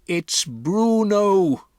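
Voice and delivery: calmly name the mouse; grandmother's voice. Acted. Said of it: "my grandmother said".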